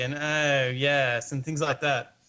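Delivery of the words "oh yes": knowingly English-leaning Sydney accent; half-English, half-Australian affectation; affected Sydney accent. Shown as a demonstration. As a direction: put on a cool inner-city Sydney accent. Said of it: "you'd probably put more affectation".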